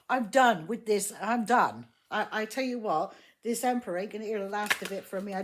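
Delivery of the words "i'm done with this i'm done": real irritation, punched louder; pissed off. Real, not acted. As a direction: put your foot down, fed up. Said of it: "I personally am already pissed off".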